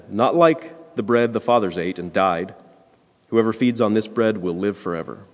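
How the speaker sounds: measured liturgical reading voice; solemn reading of the gospel. Acted. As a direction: read the scripture aloud to the congregation. Reads the gospel lesson aloud.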